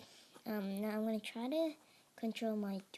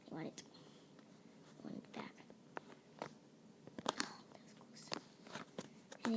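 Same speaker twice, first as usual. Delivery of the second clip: whispering; 6 semitones lower, 11 dB quieter, slower than usual. Real, not acted. Losing food in game.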